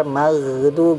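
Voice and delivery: maghdu with gh dragged into du; correct maghdu. Shown as a demonstration. Teacher giving the right form, sustained gh in maghdu. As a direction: hold the gh in maghdu without bouncing. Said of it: "Yang benar".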